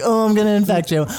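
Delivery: mock menace. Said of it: "with our friends being like".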